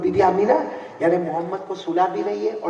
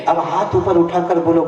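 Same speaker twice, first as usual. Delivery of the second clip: rallying call; 7 dB louder than usual. Real, not acted. Preacher rallying crowd.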